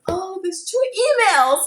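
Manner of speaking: excited high voice reading emails; high, eager retelling of reading the email. Retold or imitated. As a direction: act out opening the news, eager. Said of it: "I was like".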